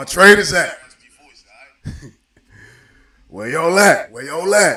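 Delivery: very loud, raspy shout. Greeting the trainers in a livestream, in the spirit of a rapper. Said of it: "in the spirit of a rapper".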